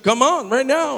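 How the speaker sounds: loud, high mock dare; heated retold taunt; acted challenge. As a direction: imitate someone spoiling for a fight.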